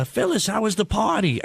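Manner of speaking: lightly voiced nosy old lady, lifted in pitch; a hint of an old Jewish lady at a diner. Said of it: "a nice old Jewish lady next to me".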